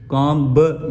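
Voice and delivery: कॉम ब with an audible b after the m; sounded b. Shown as a demonstration. Teacher showing what not to read, b sounded. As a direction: wrongly release a separate ब after कॉम. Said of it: "ये नहीं पढ़ेंगे".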